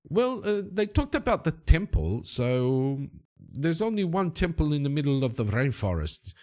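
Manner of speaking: lilting local guide, starting high; Valdemar Silva. Acted. Boatman guessing where the strangers went, lilting character voice. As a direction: think aloud as the foreign boatman.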